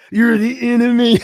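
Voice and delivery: loud, high mock wrestler growl; mock tough Randy. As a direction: play the rival declaring war, hammed up. Randy's line retold, loud high.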